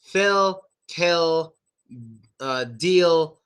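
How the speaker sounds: "Phil", "kill", "deal" each with a full final L; clear L sound. Shown as a demonstration. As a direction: make the tongue-up L end "Phil", "kill", "deal". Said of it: "just make the L sound".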